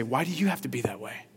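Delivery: self-righteous. Retold or imitated. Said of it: "um, self-righteous".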